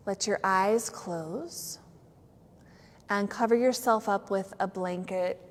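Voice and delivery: unhurried yoga teacher, pausing between phrases; settling-in yoga instruction with lingering words; guided relaxation. Real, not acted. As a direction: ease the class down into rest. Leads yoga nidra settling-in.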